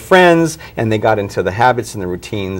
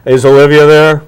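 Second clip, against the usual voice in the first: put-on child caller; 4 semitones higher, 8 dB louder than usual. Kids phoning asking for daughter.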